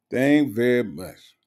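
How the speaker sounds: slow mocking echo of Thank very much; mocking repeat. Shown as a demonstration. Echoing the commenter's odd phrasing: slow mocking repeat. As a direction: savour the broken grammar, slowly.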